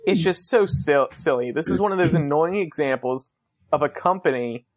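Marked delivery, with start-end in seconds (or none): none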